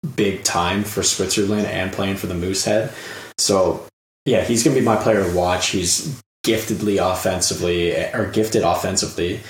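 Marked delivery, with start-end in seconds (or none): 3.4-9.4 hoarse, worn-out voice at the end of a long recording; coarse voice. Real, not acted. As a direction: talk through a tired, coarse throat. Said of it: "voice is coarse, and I can't talk anymore".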